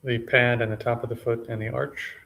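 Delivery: sparse, measured meditation cues with long pauses; name each body part calmly, then leave silence; unhurried meditation guide, slightly subdued; guided body scan. Real, not acted.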